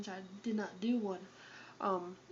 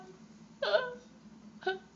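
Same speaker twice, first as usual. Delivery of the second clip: high laugh; 13 semitones higher than usual. Real, not acted. Laughs at own lament.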